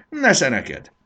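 high, loud defiant shout; battle cry. A narrator's reading. Fanny pelts the caterpillar with tomatoes, shouting defiantly. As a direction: hurl it out like a blow. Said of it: "Fanny csata kiáltása".

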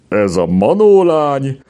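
high-pitched amazed exclamation; incredulous wonder; disbelieving. A narrator's reading. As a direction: marvel at it, pitch swooping up. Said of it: "rázta meg hitetlenkedve a fejét".

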